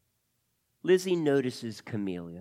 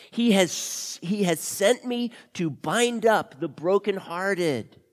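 scripture reading; 5 semitones higher, 3 dB louder, slower than usual. Acted. The speaker reads scripture with emphasis.

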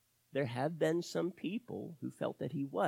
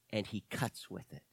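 "cuts" set out in a low, quiet line; stress on CUTS; 8 semitones lower, 8 dB quieter than usual. Real, not acted. Preacher on how Jesus answers, stress on "cuts". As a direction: lean on the word "cuts". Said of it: "emphasizing that word cuts".

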